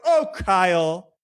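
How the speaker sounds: slow, drawn-out imitation of chiding; patronizing mock reproach, slowly; mock gaslighting. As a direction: stretch each phrase in put-on concern. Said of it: "this is where the gaslighting comes in".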